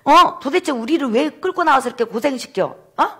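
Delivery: acted-out challenge to a leader; defiant reproach. Israelites confronting Moses for leading them out, defiant. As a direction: push back with mock indignation. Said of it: "모세한테 대들었어요".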